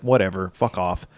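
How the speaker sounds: soft, resigned brush-off; quiet imitation of a man giving up; defeated. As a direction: wave it away with no fight left. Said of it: "he's just kind of defeated".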